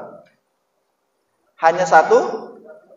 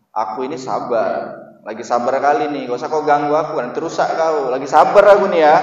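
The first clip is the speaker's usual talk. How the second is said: building from plain to a louder threat, imitating a fake-patient man; mock angry patience; 6 dB louder than usual. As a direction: act out someone claiming patience while getting angrier. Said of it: "ada orang yang kayak gini". (meniru orang yang mengaku sabar sambil makin marah)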